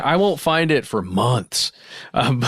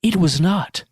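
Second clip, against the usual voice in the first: dramatic reading; 6 semitones higher than usual. Acted. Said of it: "indulge ourselves in some dramatic readings".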